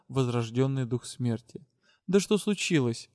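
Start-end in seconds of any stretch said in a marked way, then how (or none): 2.1-3.1 exclaimed question. Acted. Captain demands to know what happened, exclaimed. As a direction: burst out with "Да что случилось?". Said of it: "воскликнула Верис".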